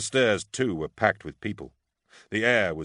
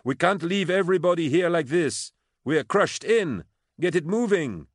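urgent, high, loud shout; 11 semitones higher, 4 dB louder than usual. A narrator's reading. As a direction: shout demands up over a crowd. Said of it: "she shouted".

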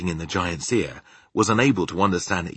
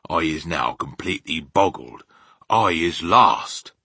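lightly voiced bewildered BFG, drawing out the end; baffled giant; 3 semitones lower, 4 dB louder than usual. BFG admits he is lost.

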